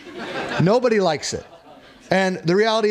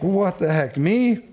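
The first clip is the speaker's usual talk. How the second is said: startled protest; 3 semitones higher, slower than usual. Retold or imitated. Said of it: "I'm like".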